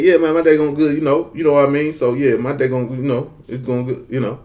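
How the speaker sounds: slurred country Southern answer; Southern dialect. Retold or imitated. Repeating his answer to puzzled listeners, Southern dialect. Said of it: "I'm speaking in a Southern dialect".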